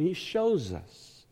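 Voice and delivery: "shows" stretched out slowly for emphasis; slow down and lean on "shows"; stress on shows. Real, not acted. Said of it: "Notice I say he shows us".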